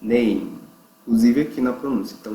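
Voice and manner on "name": "name" ending on lips shut for the M; closed final M. Shown as a demonstration. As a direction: close "name" firmly on a hummed M. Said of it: "a boca fecha quando o M aparece". ("name" fechando a boca no M)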